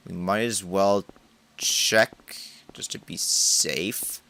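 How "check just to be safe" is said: slow, hushed whisper. Real, not acted. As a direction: creep in whispering, slowly. Whispers before entering creepy room.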